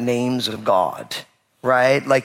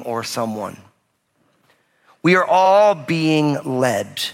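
slow reflective preaching; slower than usual. Acted.

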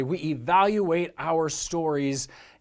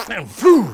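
loud blown raspberry and whoosh; explosive mouth-made fart sound; imitated fart; 4 semitones higher, 11 dB louder than usual. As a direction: blurt a comic fart noise, then "phew". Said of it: "As he farts again".

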